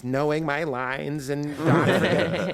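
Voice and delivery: nasal nerd voice, lightly mocking. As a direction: play a fussy nerd. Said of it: "I'm gonna use nerd voice".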